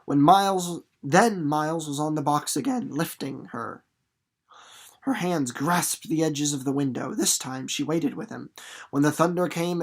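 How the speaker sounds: steady, expressive read-aloud voice; teacher reading a novel aloud to the class, expressive narration; story narration. A narrator's reading. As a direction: read the chapter to the class, letting the drama build.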